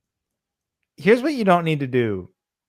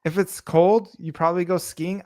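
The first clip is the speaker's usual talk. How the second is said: hammed-up exasperation, higher; exasperated retort; 5 semitones higher than usual. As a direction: explain the obvious, fed up.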